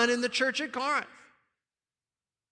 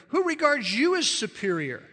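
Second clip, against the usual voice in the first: lightly mocking question, pitched up; a little sarcastic; 4 semitones higher than usual. Preacher reading Paul's question to proud believers, a little sarcastic. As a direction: needle them a little with the question. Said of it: "he's getting a little sarcastic here".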